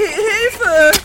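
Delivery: panicked cry for help; shouting for help. Acted. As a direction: yell out in alarm. Sid calls aunt in alarm.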